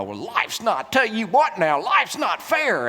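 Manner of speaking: high, relishing parental scolding; condescending little snarl. Acted. Fed-up parent swatting a child along, condescending snarl. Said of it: "condescending tone, and we say it maybe with a little snarl".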